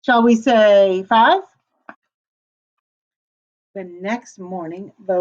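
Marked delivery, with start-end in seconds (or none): 0.0-1.4 wolf voice. A narrator's reading. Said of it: "said the wolf".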